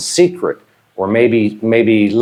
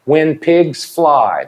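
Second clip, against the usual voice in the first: slow; 4 semitones higher, much slower than usual. Shown as a demonstration. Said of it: "teacher models idiom slowly".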